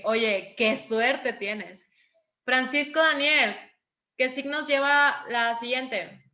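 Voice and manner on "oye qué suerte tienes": slow, drawn-out mock envy; envious amazement. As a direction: tease a friend who passed without studying. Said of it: "Es como que". (asombro burlón y lento)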